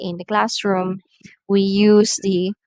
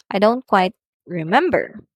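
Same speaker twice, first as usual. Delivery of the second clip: hesitant reply; 3 dB louder than usual. Shown as a demonstration. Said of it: "example here for hesitation or reluctance".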